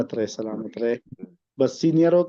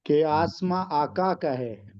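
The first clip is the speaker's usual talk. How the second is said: slow, measured verse recital; poem recitation; slower than usual. Acted. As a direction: recite the couplet with weight. Recites a naat couplet.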